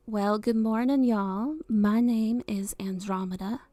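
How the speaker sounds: big Southern drawl greeting; slow, drawn-out Southern hello on request; Southern accent. Shown as a demonstration. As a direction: put on a folksy Southern accent. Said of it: "a Southern accent".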